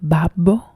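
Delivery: "Babbo" set apart, in Italian; Italian pronunciation. Shown as a demonstration. Streamer breaking down the Italian name for viewers, Italian pronunciation. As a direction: present "Babbo" alone as an Italian word. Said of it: "which is like father".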